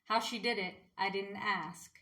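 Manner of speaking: measured recital with pauses between lines; understated spoken-word poetry; poem reading. Acted. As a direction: read it as verse, line by line. Reads her own poem aloud.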